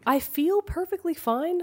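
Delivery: stuffy nose from a cold; stuffed up. Real, not acted. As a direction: talk through a blocked nose. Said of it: "I sound a little stuffed up".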